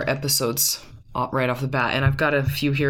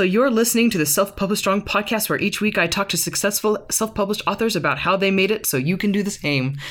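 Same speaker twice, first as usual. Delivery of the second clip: light mock British announcer read; British accent; 4 semitones higher than usual. Reading the last podcast blurb to her husband in a light British accent. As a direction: try the British accent again. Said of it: "three of them have to be read with a British accent".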